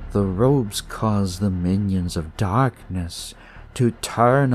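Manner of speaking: slow, lightly voiced eerie kid, savoring words; sinister young leader explaining, unhurried; a hint of a sly cult kid, slow; creepy cult kid.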